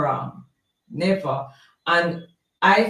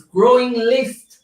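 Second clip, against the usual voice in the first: "Growing list" drawn out slowly, pitched up; emphatic repeat; 4 semitones higher, slower than usual. Real, not acted. Reading gossip article to live viewers, stressing "Growing list" slowly.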